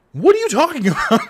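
high, loud laughing question; laughing quote. Retold or imitated. Retelling the women's confused reply, high and laughing.

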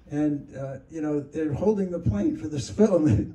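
retold angry lecture; furious. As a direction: lay out the costs in a mock fury. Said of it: "now he's furious".

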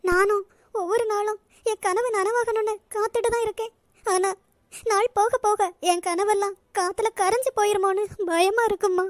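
a touch of crying; tearful. Acted. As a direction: let the tears creep in as you speak. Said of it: "எதுக்கும்மா அழுதுகிட்டு இருக்க?".

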